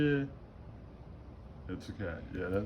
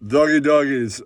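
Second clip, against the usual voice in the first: loud catchphrase; 5 dB louder than usual. Acted.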